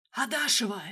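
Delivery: growled demon name; demonic voice. A narrator's reading. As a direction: snarl it like a possessed demon. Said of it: "прорычала я демоническим голосом".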